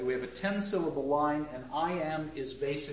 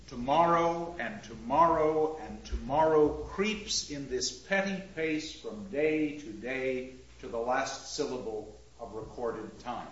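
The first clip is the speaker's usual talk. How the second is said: measured reading, falling away at the end; verse recital. Shown as a demonstration. Teacher reads the first three lines aloud, measured and fading. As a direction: let the line drag and fade. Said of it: "let me just take the first three lines".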